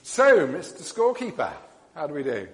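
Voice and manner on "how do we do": ordinary talk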